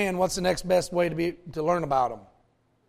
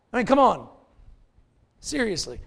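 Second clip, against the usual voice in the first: "come on" higher and louder, pressing the point; emphatic; 4 semitones higher, 4 dB louder than usual. Real, not acted. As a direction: push "come on" hard to the congregation. Aside repeated with more force.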